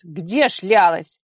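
loud, slow rough bark; harsh demand. A narrator's reading. Father interrogating his daughter, loud and harsh.

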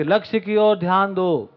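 slow, emphatic recital of a command; declaimed instruction. Acted. Speaker quoting a book to the audience, declaimed instruction. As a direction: recite it slowly like a rule from a book.

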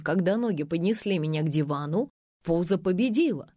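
ordinary delivery

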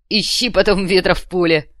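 a gruff-voiced henchman adding his bit; thug voice. A narrator's reading. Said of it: "добавил боец".

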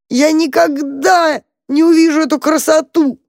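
high wailing lament; despairing cry. A narrator's reading. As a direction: blurt it out in despair. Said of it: "выговорил крот и закрыл морду лапами".

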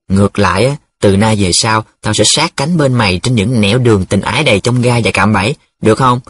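smooth, mildly flattering appeal; coaxing. Acted. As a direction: soothe a friend with grand promises. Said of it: "Nghe cái giọng vuốt ve của Nhiệm". (giọng vuốt ve)

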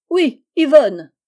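high, loud, drawn-out insistence; spiteful retort. Acted. Jealous girl confirming the rival's name, spitefully emphatic. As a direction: hammer the rival's name slowly.

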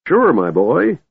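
lightly voiced old man, beaming; a hint of a pleased old wizard. A narrator's reading. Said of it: "Fizban beamed".

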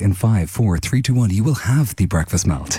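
lightly voiced hypnotist countdown; Paul McKenna. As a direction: lull them like a relaxation CD, in jest. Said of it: "you're a Paul McKenna C D".

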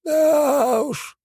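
put-on high old shaman drawling it out; drawn-out elder. A narrator's reading. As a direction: stretch the words, unimpressed. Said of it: "протянул он".

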